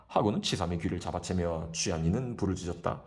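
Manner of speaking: plain reading voice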